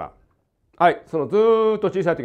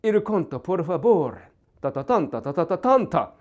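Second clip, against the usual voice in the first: mock Italian; 2 semitones higher than usual. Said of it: "イタリア語だったら".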